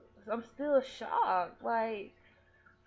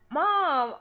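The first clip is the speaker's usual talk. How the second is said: distressed plea; 7 semitones higher, 9 dB louder than usual. Retold or imitated. Retelling her own distress to mom.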